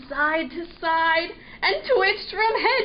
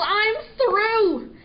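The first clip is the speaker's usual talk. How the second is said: higher, exasperated mock yell; fed-up yell; 6 semitones higher, 3 dB louder than usual. A narrator's reading. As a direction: give up in a huff. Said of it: "he yelled".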